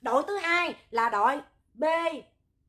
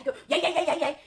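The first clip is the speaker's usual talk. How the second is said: waking call; 3 semitones higher, faster than usual. Retold or imitated. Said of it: "Mà phải để cái miệng em ta mới dậy".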